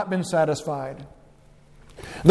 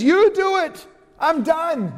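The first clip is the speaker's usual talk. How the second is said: emphatic dismissal; 8 semitones higher, slower than usual. Acted. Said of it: "There's the emphatic force in the Greek".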